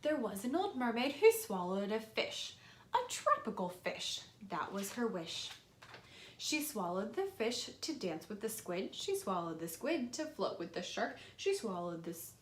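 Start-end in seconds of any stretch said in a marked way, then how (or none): 0.0-11.2 put-on reading to children. Reads picture book aloud.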